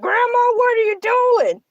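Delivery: calling out. Real, not acted. Calling out to grandma.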